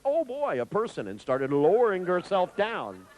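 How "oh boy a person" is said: high-pitched eager pet voice; excited little creature, much higher; imitated delighted snake. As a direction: play a snake thrilled to see someone. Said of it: "and Alice, of course, went".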